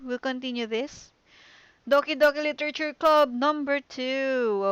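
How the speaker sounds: cheerful shouted stream outro; excited sign-off. Real, not acted. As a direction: wave goodbye with real energy.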